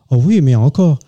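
put-on punchline in a thick Alsatian accent, slowing down. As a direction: land the joke as the Alsatian lady, drawn out. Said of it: "c'est ma blague alsacienne préférée". (accent alsacien, chute de blague ralentie)

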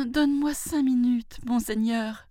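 high, frightened pleading. A narrator's reading. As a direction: beg the tiger in a high voice. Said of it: "supplia-t-il". (suppliant, voix très aiguë)

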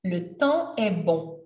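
"Le temps est bon" slow, nasal vowels stretched; slow French pronunciation model; slow nasal demo. Shown as a demonstration. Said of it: "So now you can say le temps".

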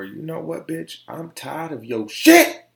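mock telling-off. Telling off a disrespectful woman.

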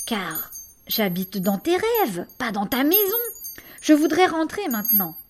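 lightly voiced monster, earnest and measured; a gentle creature speaking seriously to a child; a hint of a solemn monster. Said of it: "d'un ton sérieux".

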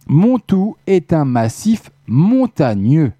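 slowed, careful re-reading of the clue; slow repeat. Real, not acted. Host repeats the charade for the chat players, slow and deliberate. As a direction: spell it out slowly so they can follow. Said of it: "je répète la charade le temps que vous trouviez".

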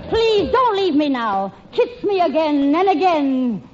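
mock pleading lover. Patsy pleads to make him jealous.

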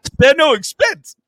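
high, put-on old showman; playful high-pitched imitation; mock film quote. Quoting the park owner from Jurassic Park, high put-on voice.

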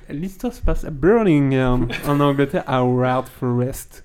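put-on light, slowed English accent on French words. Retelling the story in a mock English accent on request. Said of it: "on pourrait la voir avec un accent anglais".

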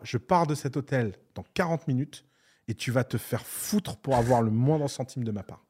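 loud, indignant re-enacted rant; retold angry outburst. Retelling how he told off the hotel man, in an angry outburst. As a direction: lay down the law, mock furious. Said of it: "là, là, je me suis vénère".

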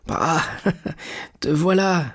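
put-on old man's delighted little chuckle; smiling. A narrator's reading. Old father welcoming his returned son, smiling with a laugh. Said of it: "dit le vieillard en souriant".

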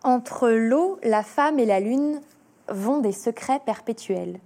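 diction lente et posée de poésie; lecture de poème. Acted. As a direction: dire le poème avec recueillement, sans presser. Lit le poème à voix haute. (lecture lente et solennelle d'une cantate)

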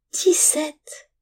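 high, astonished cry, falling at the end; shocked exclamation. A narrator's reading. Boy stunned by the charge of seventeen coins, shocked. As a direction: blurt the number in disbelief. Shock at the inflated theft figure.

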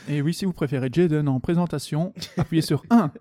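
mock automated menu announcement; phone menu voice. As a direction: read it like a recorded phone menu. (voix de serveur vocal)

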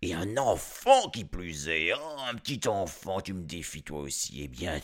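lightly voiced giant, mock menacing; threatening giant. Giant warning the child off his tree, mock menacing. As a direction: growl the threat, half joking.

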